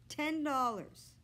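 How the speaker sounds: slow, drawn-out disbelief at the sum; stunned repeat. A narrator's reading. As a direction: say it like the price just hit him. Joe repeating the price, stunned.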